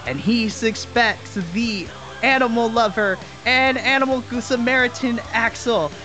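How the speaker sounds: hyped wrestling announcer read; ring announcer. Acted.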